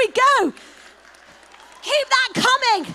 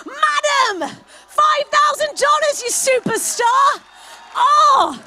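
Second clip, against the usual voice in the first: excited cheering; 6 semitones higher, slower than usual. Real, not acted. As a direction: hype up the room with a laugh. Auctioneer cheering a donor.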